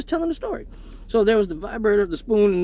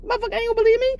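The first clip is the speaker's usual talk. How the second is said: mock indignant; much faster than usual. Acting indignant at girlfriend.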